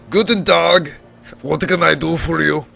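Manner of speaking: put-on gruff but kind old tinkerer, German accent; Deckard Cain voice. Junkyard tinkerer greets the visitor, gruff German-accented old man. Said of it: "a Deckard Cain voice for this guy".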